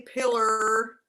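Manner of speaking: "pillar" said for pillow, ending in -er; "pillar" with a Southern r on the end; mimicked Southern pronunciation. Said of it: "I don't have an accent".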